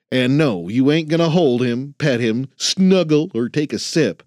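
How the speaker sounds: lightly voiced cranky old man; grumpy old janitor. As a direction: needle the rookie like a crusty veteran. Ben guarding his bottle.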